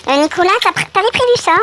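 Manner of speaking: high, loud put-on voice quizzing the host; loud, squeaky-high imagined interruption; mock questioner. Voices a viewer questioning him.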